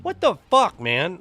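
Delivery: loud, high incredulous yell; retold disbelief. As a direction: blurt it like you can't believe the price. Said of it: "And I'm like".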